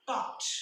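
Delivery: "talked" ending in a crisp T, not D; final T sound. Shown as a demonstration. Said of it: "आपण ट असा उच्चार करतो". ("talked" च्या शेवटी ट असा उच्चार)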